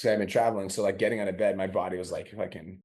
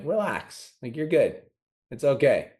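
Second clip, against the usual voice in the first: reassuring self-talk; 4 semitones higher than usual. Retold or imitated. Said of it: "I give myself love".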